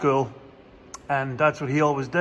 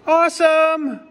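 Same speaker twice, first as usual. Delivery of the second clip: loud, high mock cheer; exaggerated fake enthusiasm, drawn out; sarcastic; 11 semitones higher, 8 dB louder than usual. Real, not acted. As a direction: cry it out with sarcastic delight. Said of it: "That's sarcasm, by the way".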